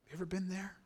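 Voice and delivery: whispered question; hushed intimate question. Real, not acted. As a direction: lean in and whisper it to the congregation. Preacher asks listeners quietly.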